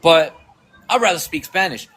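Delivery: put-on English with a thick Spanish accent; imitated thick Spanish-accented English. Man admitting he can speak English, thick Spanish accent. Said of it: "with a thick accent".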